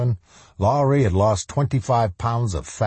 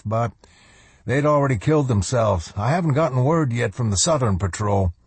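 higher-pitched subordinate officer reporting; dutiful lieutenant; 5 semitones higher than usual. Acted. Lieutenant reporting a failed search to his colonel, dutiful. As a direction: report up to your commander in a higher voice.

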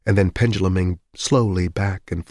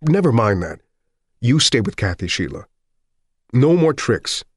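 firm plea; 4 semitones higher, 4 dB louder than usual. Acted. Husband pleading firmly.

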